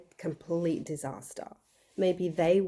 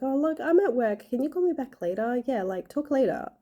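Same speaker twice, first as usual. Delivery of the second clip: higher, rushed, someone stuck at work; busy brush-off; 6 semitones higher than usual. Retold or imitated. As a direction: hurry them off the phone. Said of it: "made it clear that they were busy".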